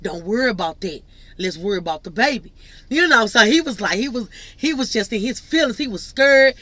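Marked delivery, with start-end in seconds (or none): 0.0-2.5 a lightly voiced boyfriend soothing his partner; reassuring boyfriend. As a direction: lower and softer, calming her down. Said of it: "He's like".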